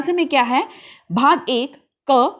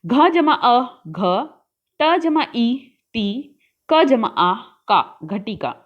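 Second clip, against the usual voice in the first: very slow, each part drawn out; teacher slowly assembling घटिका; slow syllable building; much slower than usual. Shown as a demonstration. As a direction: spell it out bit by bit then say the word. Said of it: "स्थालिका".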